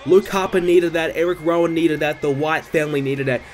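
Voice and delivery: live ringside play-by-play; wrestling commentator. Acted. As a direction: call the match like a TV announcer. Live play-by-play of game match.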